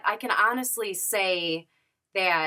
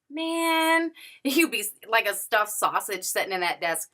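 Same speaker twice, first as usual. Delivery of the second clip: laughing; 2 semitones higher than usual. Retold or imitated. To her best friend about the small desk, laughing. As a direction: break into a laugh mid-sentence.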